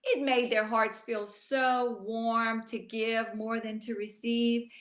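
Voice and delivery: put-on rhythmic rhyming read-aloud for children; storybook reading. A narrator's reading. Teacher reading a rhyming book to children, gently. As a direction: read the rhymes to the little ones.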